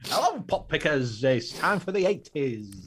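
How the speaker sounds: slow, drawn-out cheesy DJ intro; cheesy radio DJ. Pretend. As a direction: announce it like an old radio host. Repeats DJ catchphrase.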